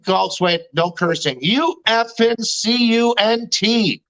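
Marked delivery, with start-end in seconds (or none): 1.4-4.0 slow, spelled-out insult; retold anger. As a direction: re-enact anger, drawing out each letter. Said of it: "I got angry".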